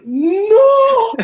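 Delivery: a high, loud cry of no; panicked shout. Retold or imitated. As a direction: yell to stop him in alarm. Coach panics as fighter walks out.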